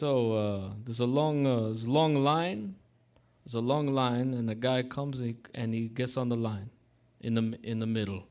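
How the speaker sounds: lightly imitated Russian-Italian accent; fumbling mock Russian-accented English. Retelling the barber's long-line joke, mock Russian accent. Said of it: "he's got this Russian accent".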